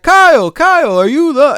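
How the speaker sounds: urgent calling. Retold or imitated. Friend snapping a daydreamer back, high urgent call.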